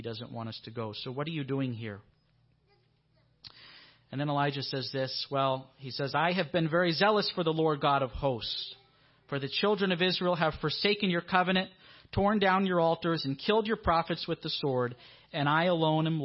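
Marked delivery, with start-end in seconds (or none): 6.1-16.2 loud indignant complaint. Acted. Elijah's complaint voiced.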